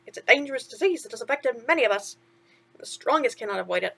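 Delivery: chirpy sidekick asking what's wrong; a hint of cartoon mouse; lightly voiced mouse. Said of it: "Timothy continued".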